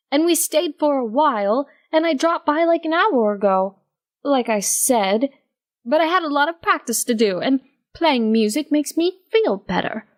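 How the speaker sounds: a hint of Octavia explaining herself; Octavia, guilty. Octavia voiced, guilty then worried.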